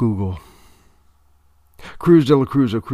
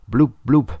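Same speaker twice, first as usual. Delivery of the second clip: eager repeat; 5 semitones higher, 6 dB louder than usual. A narrator's reading. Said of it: "the little first mate would repeat".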